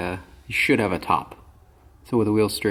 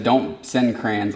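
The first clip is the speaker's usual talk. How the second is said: quoting; 5 dB louder, much slower than usual. Retold or imitated. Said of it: "The second you said".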